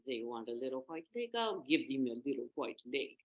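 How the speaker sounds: lightly voiced crafty wolf; scheming wolf. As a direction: mutter the plan to yourself.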